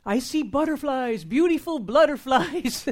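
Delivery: high, loud, drawn-out prophetic gushing; mock prophesying. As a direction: imitate an over-the-top prophet proclaiming a vision. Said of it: "this person prophesied and said".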